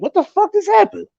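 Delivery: high, baffled cry; mock stunned disbelief. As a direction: act stunned by the sudden church talk. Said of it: "I was like".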